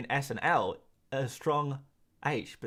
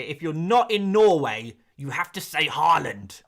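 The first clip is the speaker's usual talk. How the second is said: mock indignant complaint, louder at the start; imitated anger; 6 dB louder than usual. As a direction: play an angry commenter. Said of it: "I being very angry".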